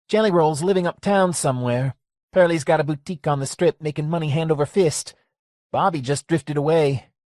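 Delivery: lightly voiced old barkeep, wry; a hint of a rueful old man; Lester voice. Lester tells Gracie where everyone went, wry.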